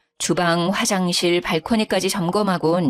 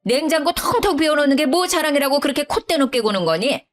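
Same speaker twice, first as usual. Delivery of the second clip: higher, haughty scolding mother-in-law; mother-in-law rising to outrage; indignant mother-in-law; 5 semitones higher than usual. Acted. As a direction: put the upstart daughter-in-law in her place.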